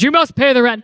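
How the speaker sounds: low, sneering cartoon villain; menacing melodrama landlord; mustache twirling villain. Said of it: "Oh, no, it goes".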